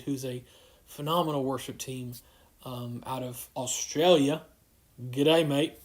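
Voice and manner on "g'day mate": amateur attempt at Australian accent. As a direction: lightly put on an Australian greeting. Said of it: "the extent of my Australian accent".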